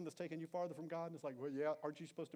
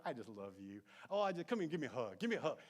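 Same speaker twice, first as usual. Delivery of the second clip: louder, gushing "come and give me a hug"; imitating a gushing partner dodging the request; mock sweet affection; 4 semitones lower, 4 dB louder than usual. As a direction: smother them with fake affection. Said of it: "sit there and go".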